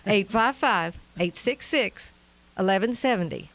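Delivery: slowed-down Arkansas accent for a phone number. Shown as a demonstration. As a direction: read the digits in your best Arkansas accent. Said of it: "I said that in my best Arkansas accent".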